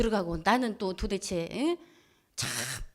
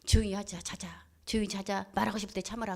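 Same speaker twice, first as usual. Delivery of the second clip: hushed, low retold coaxing; calm them down softly toward sleep; soft, low pacifying voice; soothing; 3 semitones lower, 5 dB quieter than usual. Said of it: "내가 달래요".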